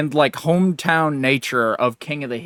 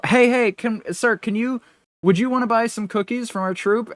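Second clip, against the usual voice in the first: put-on higher, eager little Girl Scout; 7 semitones higher than usual. Retelling a Girl Scout stopping Hank, in a higher kid voice. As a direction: pipe up like a kid selling cookies. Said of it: "and they go".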